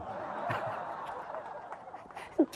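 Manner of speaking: a wheezing high giggle; high breathy laugh. Real, not acted. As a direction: let a silent high laugh escape. Audience laugh after joke.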